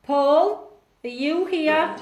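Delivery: lifted call that rises at the end. Real, not acted. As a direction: call into the room for an answer. Calling out to a spirit.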